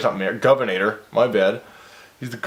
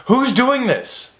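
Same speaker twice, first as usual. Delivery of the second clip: baffled questions; 7 semitones higher than usual. Real, not acted. Confused by story narration.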